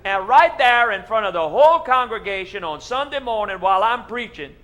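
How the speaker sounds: loud, high, building preacher excitement; excited tall tale. Acted. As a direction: tell it big and breathless. Pastor finishes the tall tale.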